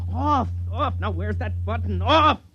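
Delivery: high, panicky yelling at a machine; desperate, shouting it to stop; frantic shouting. Acted. Shouting at the force field.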